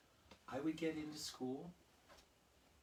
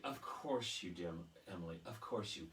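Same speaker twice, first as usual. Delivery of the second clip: doting teacher; 5 semitones lower than usual. Retold or imitated. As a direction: coo it to the favourite pupil. Teacher doting on favourite pupil.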